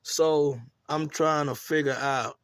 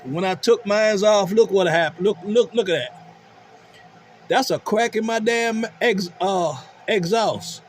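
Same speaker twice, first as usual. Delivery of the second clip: surprised; 5 semitones higher than usual. Real, not acted. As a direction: react to the cracked pipe. Discovering cracked exhaust.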